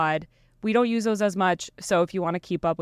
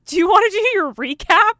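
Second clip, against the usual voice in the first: high, loud, bubbly sales voice; chirpy app voice; 11 semitones higher, 8 dB louder than usual. Retold or imitated. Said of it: "card was like".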